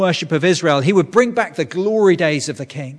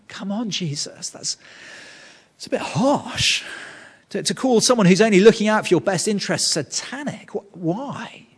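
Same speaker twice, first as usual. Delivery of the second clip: higher-pitched, baffled complaint; incredulous objection; 5 semitones higher than usual. Acted. Preacher questioning Jesus's harsh rebuke, incredulous objection. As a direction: object as if it's unfair.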